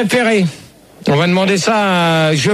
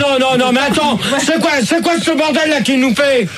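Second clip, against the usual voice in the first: agitated, high-pitched objection; worked-up protest; 6 semitones higher than usual. Real, not acted. Host refuses the prank names, worked-up protest. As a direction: object with mounting exasperation, pitch up. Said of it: "t'es énervé pour un rien".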